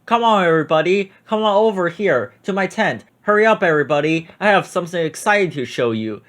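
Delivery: lightly hammed-up ringmaster shout; barker's call. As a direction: call the crowd in like a circus barker. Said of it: "the circus man would shout".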